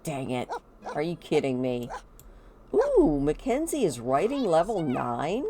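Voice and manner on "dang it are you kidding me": low mock grumble from a dad; a touch of pretend frustration, kept low; lightly voiced dad. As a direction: play the dad missing his shot, understated. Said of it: "He's like".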